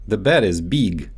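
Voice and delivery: big said as "beeg" with a long ee; Russian-accented "big" stretched to beeg. Shown as a demonstration. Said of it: "so they often get mixed up in English".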